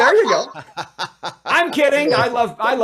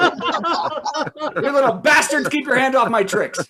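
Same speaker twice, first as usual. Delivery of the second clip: squeaky cereal mascot; 5 semitones higher than usual. Pretend. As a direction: snarl it like a cartoon mascot. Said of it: "cereal mascot rant".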